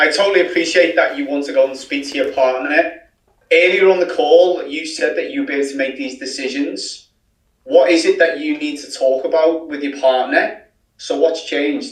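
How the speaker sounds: openly disbelieving, pointed, incredulous tone. A coach demonstrates answering a client who must consult her husband, incredulous. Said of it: "I want you to be incredulous".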